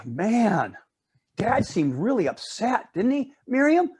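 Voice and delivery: a hint of a nervous little girl; worried little girl. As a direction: play the good daughter fretting to her sister. Sandra voiced in the story.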